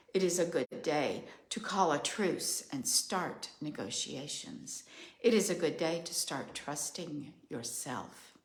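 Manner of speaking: measured, ritual oracle cadence; steady solemn litany; incantatory reading. Acted. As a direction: chant each line like a decree. Reads her channeled journal message.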